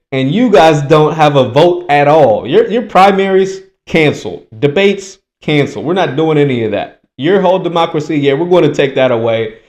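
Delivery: lightly voiced cynical establishment; smug party insiders. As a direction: sneer it like a scheming party boss. Mocking the party's cabal voice.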